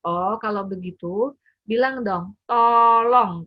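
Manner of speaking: slow, then loud tolong; child voice. Retold or imitated. Child finally says please to mum, loud on tolong. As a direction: coax the word out like a child. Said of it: "dia akan bilang".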